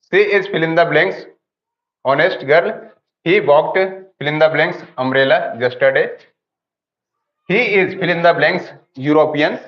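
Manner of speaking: slow, deliberate reading of each blank; slow dictation reading. Shown as a demonstration. Teacher reading exercise sentences aloud to the class, slow and deliberate. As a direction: spell out the exercise sentences slowly.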